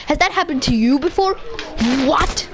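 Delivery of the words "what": shocked. Real, not acted. Unexpected death.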